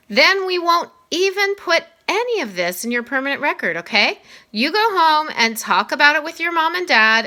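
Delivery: a principal gently laying down the rules; Mister Tushman. Acted. Voices Mr. Tushman.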